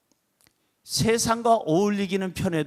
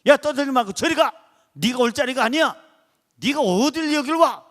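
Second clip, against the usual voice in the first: a bystander chasing off the beggar, mock scolding; 4 semitones higher than usual. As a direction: shoo the beggar away, half-acted. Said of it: "막 야단치고 그랬을 거예요".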